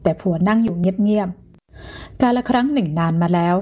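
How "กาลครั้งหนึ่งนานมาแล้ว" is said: put-on old man drawing out กาลครั้งหนึ่งนานมาแล้ว slowly; a slow, unhurried old man starting his tale; slow storyteller opening. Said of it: "เริ่มนิทานของเขาอย่างเนิบๆ".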